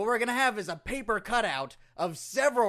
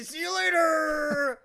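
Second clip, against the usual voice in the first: slow booming sign-off; wrestler promo voice; 7 semitones higher, 3 dB louder, much slower than usual. Acted. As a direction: stretch it out like a ring announcer. Triple H bit signing off.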